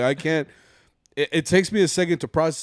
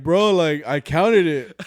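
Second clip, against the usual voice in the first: retold protest, louder and higher; mock protest; 4 semitones higher, 7 dB louder, much slower than usual. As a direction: insist on it, raised voice, half playing it up. Retold protest over miscounted money.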